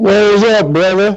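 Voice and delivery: loud voice. Calling in and greeting the other speaker: sounding very loud. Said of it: "You sound really loud".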